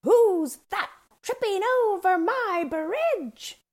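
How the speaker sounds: booming troll. A narrator's reading. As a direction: boom it out as a theatrical bridge troll. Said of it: "she boomed".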